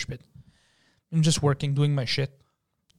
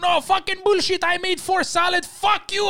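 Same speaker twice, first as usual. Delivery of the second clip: high, loud imitation of a yelling cook; mock angry cook; 13 semitones higher, 3 dB louder than usual. Cook arguing with waiter over salads, mock shouting. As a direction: shout it back like a furious cook. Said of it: "He's like".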